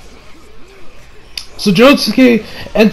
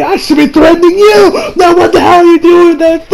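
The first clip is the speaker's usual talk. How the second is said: retold chef threat; 6 semitones higher than usual. Chef confronts Josuke, retold.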